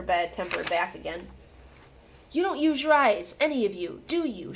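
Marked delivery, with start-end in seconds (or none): 2.3-4.5 high, loud reproach; bad-tempered snap; snapped. A narrator's reading. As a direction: scold them for being unobservant. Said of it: "she snapped".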